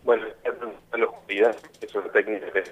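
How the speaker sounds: glitchy, breaking-up phone line; choppy call. Real, not acted. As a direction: voice cutting out over a bad connection. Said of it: "Te escucho cortado".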